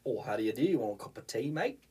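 put-on British accent slipping into Australian; botched British accent. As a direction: attempt British, land closer to Australian. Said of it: "I can't do my British accent".

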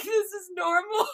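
high-pitched, laughing retelling; amused squeal through laughter; imitating laughing mom. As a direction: mimic mom cracking up. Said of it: "My mom couldn't stop laughing".

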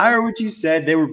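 defensive. Real, not acted. Defends himself against teasing.

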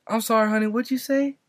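lightly acted confusion, lifting the pitch; mock baffled server; confused lady. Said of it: "the lady's tripping out".

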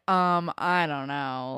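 slow, hesitant mock Manny voice; mock timid Manny. Friend mocking Manny's reluctant answer, hesitant. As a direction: drag it out like a shy girl unsure.

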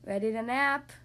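low, sleepy elephant asking. Acted. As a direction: ask it low and drowsy. Gerald vs Piggy same words.

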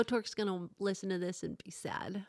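hushed unvoiced whisper aside. Real, not acted. Whispering a teasing aside to the co-host about Torque. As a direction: lean in and whisper it like a secret.

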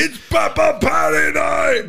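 high, slow shouted Irish catchphrase; hammed-up Irish party cry; mock Irish shout. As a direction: yell it like a cocky Irish fighter. Quoting McGregor catchphrase.

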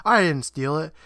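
half-hearted yelled protest, retold. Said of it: "Jimmy gets up yelling".

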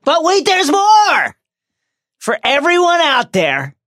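high, loud, drawn-out mock announcer cry; hammed-up TV pitch, stretched and high; infomercial announcer. Recapping the chapter to listeners like a pitchman, mock announcer.

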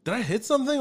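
panicked. Retold or imitated. Panicked retold thought.

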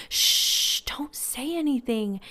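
urgent shush into a whisper; hushing whisper. Retold or imitated. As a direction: imitate a mom secretly hushing someone. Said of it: "And then she whispers to me".

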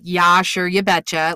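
lightly put-on Midwestern accent; a mild mock Midwestern folksy lilt; folksy Upper Midwest accent. Shown as a demonstration. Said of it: "The Queen would approve of you".

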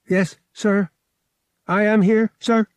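prim droid, a bit rattled; shaken droid. A narrator's reading. Droid answering pilot after crash, shaken droid voice. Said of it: "mechanical tones sounded a bit shaken".

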